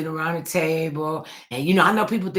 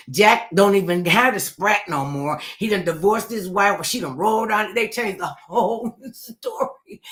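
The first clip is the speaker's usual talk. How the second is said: laughing; 7 semitones higher, 6 dB louder than usual. Retold or imitated. Garbled gossip punchline.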